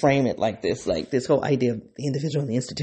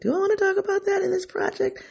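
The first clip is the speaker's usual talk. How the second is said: inner question. Retold or imitated. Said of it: "I was like".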